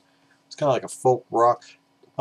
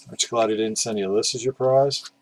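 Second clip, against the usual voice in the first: ordinary talk, nothing marked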